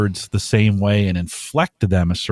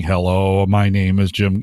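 lightly voiced wonky computer voice; a hint of robotic text-to-speech. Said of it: "the wonky computer sounding".

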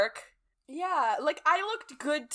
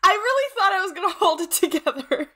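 high, loud, tearful and half laughing; real tears easing into rueful laughter; bawling; 5 semitones higher, 4 dB louder than usual. Real, not acted. Host admitting they failed to hold it together, bawling. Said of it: "I didn't think I was gonna bawl".

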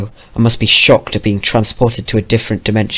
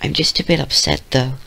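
high, small upset voice; timid little pony, mildly tearful; sniffling; 4 semitones higher, 4 dB quieter than usual. Acted. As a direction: pitch it up, softly wounded. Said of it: "she sniffed".

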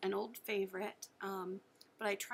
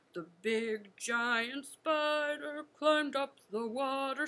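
loud giant voice; 4 dB louder than usual. Shown as a demonstration. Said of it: "ginormous spider".

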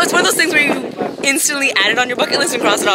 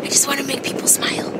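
soft whisper, high and breathy; 4 semitones higher, 6 dB quieter than usual. Real, not acted. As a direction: whisper it like a secret wish. Soft heartfelt closing line.

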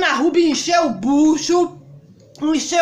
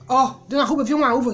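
talking while chewing; words round a bite of food; 2 semitones lower, faster than usual. Real, not acted. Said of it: "eu não posso mastigar direito".

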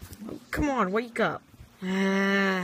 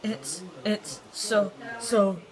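disgusted; much slower than usual. Pretend. Tastes oversalted pizza.

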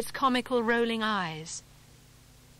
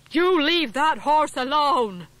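much louder, higher, slow bellow; furious shout; 6 semitones higher, 9 dB louder, slower than usual. Acted. Governor shouting at the farmer to drop the horse, furious. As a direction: roar each word at the farmer. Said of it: "he shouted".

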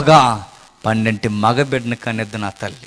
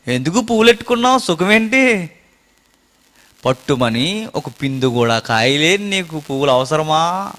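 taunting jibe; 3 semitones higher than usual. Retold or imitated. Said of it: "ఈ డైలాగులు ఉండవు స్త్రీల మధ్య".

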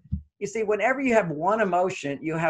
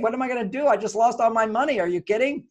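panicked over lost money; 4 semitones higher, faster than usual. Acted. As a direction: act out a man who just lost all his money, mock panic. Acting out losing all money.

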